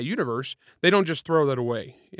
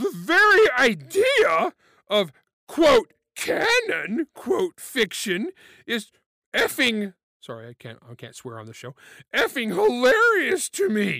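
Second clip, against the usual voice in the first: silly put-on voice, much higher; 7 semitones higher than usual. Reading a tweet aloud on the show, in a stupid voice. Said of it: "my stupid voice".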